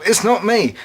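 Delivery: high-pitched mock protest; David denying it. David denies eating the chocolate, high protesting voice. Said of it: "Everyone knows it was David".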